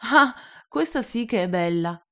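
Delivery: little prince delighted at the news. Acted. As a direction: burst out in amused delight. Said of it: "allegra risata".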